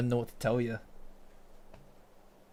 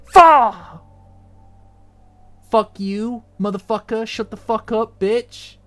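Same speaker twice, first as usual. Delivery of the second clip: phone meme sound; 9 semitones higher, 9 dB louder, slower than usual. Retold or imitated. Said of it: "play a".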